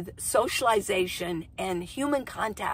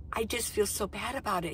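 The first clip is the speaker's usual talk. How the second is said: quiet remorse; 6 dB quieter than usual. Retold or imitated. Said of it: "he said".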